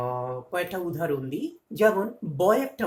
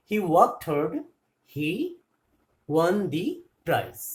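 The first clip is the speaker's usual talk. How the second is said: slow dictation; 3 dB louder, much slower than usual. Shown as a demonstration. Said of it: "দেখো এবারটা কিভাবে করছি".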